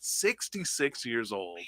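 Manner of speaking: drawn out at half speed; marveling emphasis. Real, not acted. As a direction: stretch each word out in amazement. Marveling at the winner's age.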